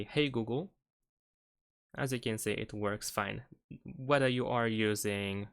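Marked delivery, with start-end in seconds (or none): 0.0-0.7 talking to voice assistant. Shown as a demonstration. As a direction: clear spoken command to phone. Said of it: "if I say".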